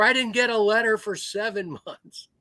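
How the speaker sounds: lightly voiced wife, laughing through it; scolding old wife. Little old lady scolds her husband about letters, high and laughing.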